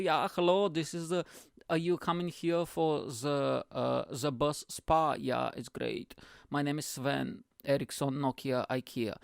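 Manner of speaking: lightly put-on Swedish accent; hint of a hammed-up Swedish accent; Swedish spa attendant. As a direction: greet them like a mock Swedish sauna host. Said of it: "a Swedish guy with some towels".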